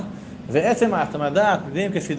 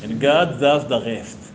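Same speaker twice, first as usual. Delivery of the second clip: Israeli accent; 5 semitones lower, much slower than usual. Shown as a demonstration. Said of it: "מבטא ישראלי".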